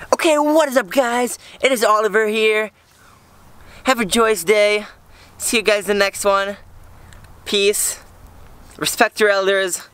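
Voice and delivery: high-pitched mock vlogger intro and sign-off; exaggerated high, singsong vlog catchphrases; Oliver impression. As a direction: parody a hyper YouTuber, each phrase held high. Mimicking absent friend's vlog intro, outro.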